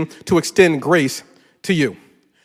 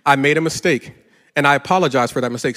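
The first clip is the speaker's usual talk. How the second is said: sincere apology; 4 semitones lower than usual. Shown as a demonstration. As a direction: show husbands how to apologize. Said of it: "Let me show you how it's done".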